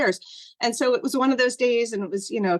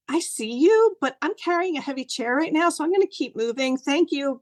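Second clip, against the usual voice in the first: high, hurried cheerful brush-off; bright busy greeting; 6 semitones higher than usual. Retold or imitated. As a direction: chirp it while hurrying past.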